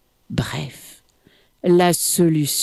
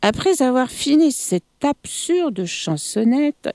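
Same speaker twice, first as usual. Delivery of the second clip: plain reading voice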